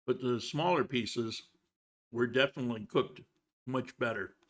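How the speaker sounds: chewing while talking; mouth full. Real, not acted. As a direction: speak with a mouthful of food. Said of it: "sorry if I'm talking with my mouth full".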